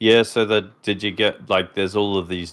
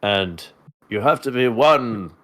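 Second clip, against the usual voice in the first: parody Obi-Wan. Acted. Parody Obi-Wan talking to Luke.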